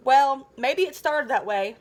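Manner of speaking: slow, sincere, a touch of earnestness; mildly earnest, slowing it down. Acted. Naomi defends Cap to Zach, mildly earnest and slow. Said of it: "Naomi said earnestly".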